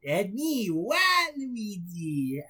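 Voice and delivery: very slow drawn-out name; Waluigi call. Acted. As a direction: announce himself grandly. Waluigi entrance.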